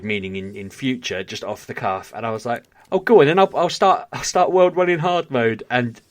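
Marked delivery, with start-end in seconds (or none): 2.9-5.6 loud, high retold burst of bravado; eager agreement. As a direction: give in gleefully, much louder and higher. Retelling his eager agreement to challenge.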